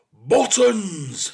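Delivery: volcanic, high, drawn-out bawl. A narrator's reading. Exasperated father reminding forgetful son, bawling. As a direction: erupt with the word at full blast. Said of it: "he bawled".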